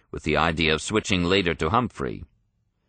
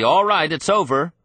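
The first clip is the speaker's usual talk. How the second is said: high and loud, triumphant; a loud, high shout of triumph; exultant shout; 10 semitones higher, 5 dB louder than usual. A narrator's reading. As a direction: cry out in victory. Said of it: "Johnson shouted exultantly".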